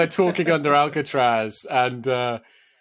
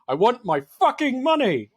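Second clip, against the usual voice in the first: mock shout; 9 semitones higher than usual. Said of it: "Like, like shouting".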